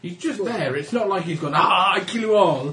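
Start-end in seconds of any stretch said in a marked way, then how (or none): 1.6-2.7 put-on comedy Mexican accent. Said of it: "in the comedy Mexican accent".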